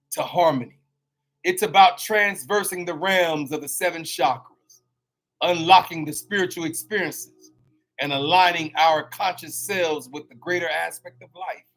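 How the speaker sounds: measured, grand show-opening narration; solemn welcome to the listeners; podcast intro read. Acted. Reads the show's intro.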